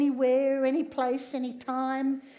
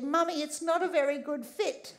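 put-on pathetic child; 2 semitones higher than usual. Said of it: "looked up at me rather pathetically and said".

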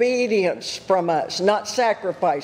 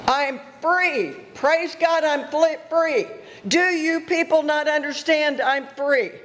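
higher, building retold shout of joy; ecstatic joy; 5 semitones higher than usual. Preacher acting the freed man praising God, building joyful cry. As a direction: let the joy climb higher each phrase.

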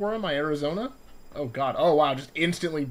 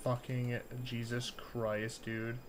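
shaky relieved sigh; 7 semitones lower, 11 dB quieter, much slower than usual. Real, not acted. Relief after scare.

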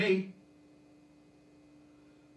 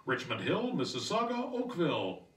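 radio ad read; 3 dB quieter than usual. Retold or imitated. Radio commercial in the Uber, soft announcer read. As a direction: sell it like a local ad. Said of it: "the ones that go".

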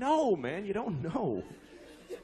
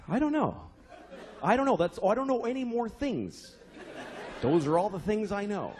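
exasperated dad. Retold or imitated. Dad cornered by his daughter's whys, getting exasperated. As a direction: crack under the questions.

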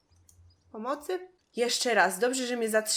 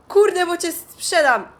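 louder, exasperated scolding; angry scolding; 2 semitones higher, 7 dB louder than usual. Real, not acted. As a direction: scold him for being useless. Threatening Jimmy.

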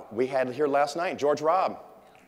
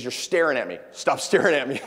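louder, half-laughing stop-staring order; mock scolding; 2 semitones higher, 7 dB louder than usual. Comedian telling a front-row fan to stop staring, mock scolding. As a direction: scold him like he's creepy. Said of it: "he goes".

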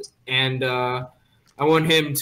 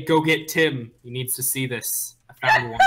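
in-character call; 3 semitones lower than usual. Acted. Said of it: "and I'm gonna say".

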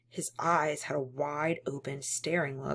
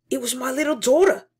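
louder, higher proud lament; proud yet mournful; doleful pride; 8 semitones higher, 12 dB louder, faster than usual. Acted. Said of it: "with a sort of doleful pride".

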